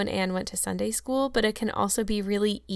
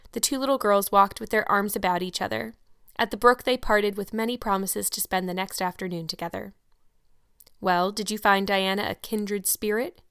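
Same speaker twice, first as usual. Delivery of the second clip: even, unhurried audiobook reading; steady storyteller voice; story narration. A narrator's reading. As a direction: read the chapter aloud to listeners. Reads the novel aloud.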